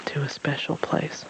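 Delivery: soft unvoiced whisper. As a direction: hush it like a secret. Stranger answers softly.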